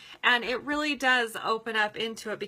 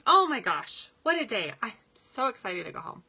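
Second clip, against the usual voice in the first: excited. Shown as a demonstration. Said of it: "So I'm making a statement".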